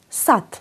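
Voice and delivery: Σατ with a clean "t" at the end; final d as t. Shown as a demonstration. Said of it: "ακούμε τ". (Σατ με τελικό «τ» αντί για «ντ»)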